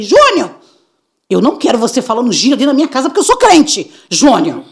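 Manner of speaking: loud, fast shout at son; yelled. Retold or imitated. Mother yells at son about slang at home. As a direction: yell at him to stop the slang. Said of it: "Eu gritei".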